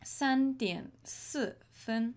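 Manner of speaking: 放慢速度，清楚地说三点四分; 一字一字地念出三点四分; slow clear example. Shown as a demonstration. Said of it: "For example".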